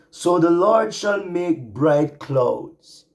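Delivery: the reading slows to a halt, voice full of real emotion; pleading for help, then reading slowly and high; getting emotional. Real, not acted. Preacher overcome while reading scripture, slow and emotional. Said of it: "sorry, I'm getting emotional".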